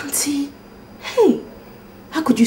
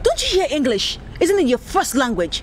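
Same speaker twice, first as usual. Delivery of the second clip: sarcastic; 8 semitones higher than usual. Acted. Mocking his persistence.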